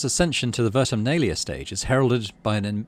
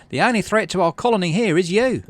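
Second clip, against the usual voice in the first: loud, higher, pointed accusation; furious accusation; 9 semitones higher, 6 dB louder than usual. Acted. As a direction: jab every word at him. Utopia jabs finger at governor.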